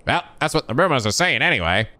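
enthusiastic guard. Acted. Guard answers about the rumors.

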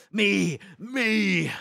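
excited. Real, not acted. Excited calling.

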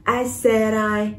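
"I said I" slowly run together; "I said I" with d carried onto the next vowel; linked words. Shown as a demonstration. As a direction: slowly link "said" into "I". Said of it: "đọc nối ha".

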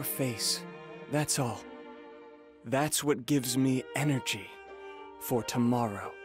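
low, tender admission; intimate affection. Acted. Visiting a dear friend without reason, intimate affection. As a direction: confess fondness, voice sinking low.

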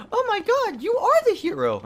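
high gushing admirer; swooning girl voice. Retold or imitated. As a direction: gasp and gush like a fan.

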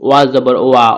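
ওয়া shaped between both lips, lips rounded. Shown as a demonstration. Teacher demonstrating ওয়া rounded between the lips. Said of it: "ওয়াটা উচ্চারণ করা হয় দুই ঠোঁটের মাঝখান থেকে".

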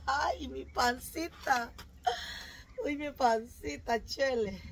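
slow whimpering moan; slow pained whimper. Acted. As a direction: drag it out, whining in pain. Tummy hurts from exercise.

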